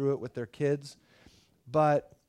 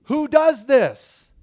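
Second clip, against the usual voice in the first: much higher and louder, slow amazement; awestruck disciples; 10 semitones higher, 11 dB louder, much slower than usual. Retold or imitated. Stunned disciples after the wind dies, amazed outcry. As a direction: gasp it out in disbelief.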